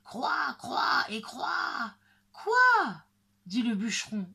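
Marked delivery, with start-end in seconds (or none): 0.0-1.9 high, drawn-out caws; shrieked crow caws. A narrator's reading. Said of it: "en criant". 2.3-3.0 very high, loud cry; outraged surprise. A narrator's reading. Woodcutter outraged by three crows.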